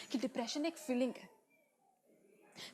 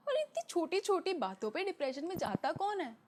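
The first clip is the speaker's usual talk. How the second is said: higher-pitched, swooping mock disbelief; scornful disbelief; 5 semitones higher than usual. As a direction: play someone belittling another's troubles. Acting out dismissive people.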